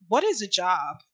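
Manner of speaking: hammed-up rich lady voice, airy and dismissive; terrible posh accent, mock rich. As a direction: play a clueless rich woman, badly faked accent. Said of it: "That was a terrible accent".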